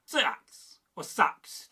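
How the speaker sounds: "Sax" said lightly and slowly, two variants; slightly lighter. Shown as a demonstration. Teacher showing East Anglian variants, lighter "Sax". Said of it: "but perhaps slightly lighter".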